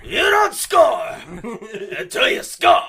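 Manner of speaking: slow, loud, high mock pep talk; hammed-up coach speech. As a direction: bellow it like a movie coach. Quoting a movie coach speech.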